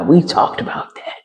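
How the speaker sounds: breathy whisper, no voice; whispered repeat. Retold or imitated. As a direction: drop to a hushed whisper on the repeat. Repeats line, second hushed.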